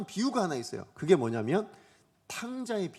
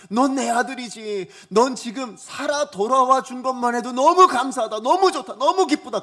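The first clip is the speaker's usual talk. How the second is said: joyful welcome; 5 semitones higher, 8 dB louder than usual. Pretend. Father welcomes returning son.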